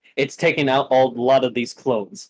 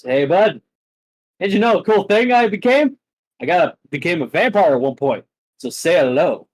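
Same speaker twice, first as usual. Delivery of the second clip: taunting; 5 semitones higher, 4 dB louder, faster than usual. Acted. GM voices Kong taunting.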